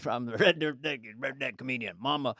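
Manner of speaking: redneck comedian. Acted. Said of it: "a Red Redneck".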